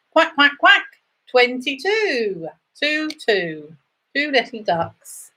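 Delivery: sing-song number calling, rising then falling; bingo caller. Acted. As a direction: call each number out to the hall. Bingo call with quacking.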